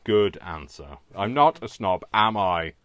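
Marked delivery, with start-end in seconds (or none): 1.2-2.7 louder, teasing protest to her partner; loud mock protest. Real, not acted. Teasing her partner, a loud mock protest. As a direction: demand reassurance, half joking.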